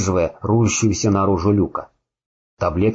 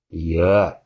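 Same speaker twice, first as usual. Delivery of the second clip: groaning and gurgling with blood; 3 semitones lower than usual. Acted. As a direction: strain through a mouthful of blood. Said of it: "Кряхтя и булькая кровью".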